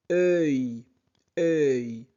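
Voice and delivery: « œil » bien articulé; son euil. Shown as a demonstration. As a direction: dire « œil » comme dans feuille. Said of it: "E U I deux L se prononce". (« œil » détaché)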